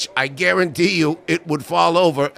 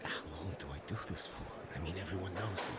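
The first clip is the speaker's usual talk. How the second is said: whispered off-mic aside, much softer; 11 semitones lower, 25 dB quieter, faster than usual. Real, not acted. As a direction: drop to a whisper off-mic to the crew.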